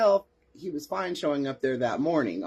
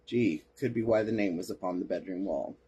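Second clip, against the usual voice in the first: dry deadpan aside, lower in pitch; sarcastic; 5 semitones lower, 4 dB quieter than usual. Real, not acted. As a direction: drop low for a sarcastic "gee". Sarcastic aside on an obvious explanation.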